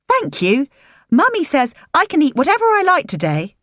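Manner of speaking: put-on high, eager child's voice; little girl. A narrator's reading. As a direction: play the small granddaughter asking sweetly.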